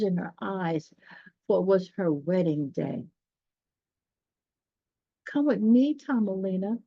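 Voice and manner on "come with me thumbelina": lightly voiced bird begging her to come; begging swallow. Swallow begging Thumbelina to fly away with him. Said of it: "begged the swallow".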